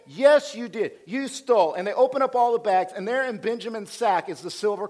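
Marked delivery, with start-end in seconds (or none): 0.1-1.7 loud, insistent accusation; a loud accuser cutting off their denial; accusing Joseph. Retold or imitated. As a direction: throw the charge at them loudly.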